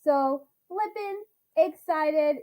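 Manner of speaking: high, eager greeting, stretching words out; excited. Real, not acted. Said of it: "so flippin' excited".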